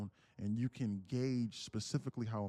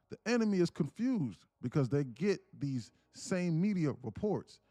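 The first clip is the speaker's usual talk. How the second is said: raised, louder, chopped into bursts; choppy reading voice; 4 semitones higher, 3 dB louder than usual. Shown as a demonstration. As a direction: read it in choppy, shouted chunks. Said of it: "why is this dude reading in this choppy voice".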